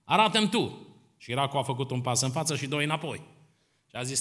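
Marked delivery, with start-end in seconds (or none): 0.0-0.9 higher, louder little crab pleading; a small child protesting to his dad; crab son. Acted. Crab son challenges father.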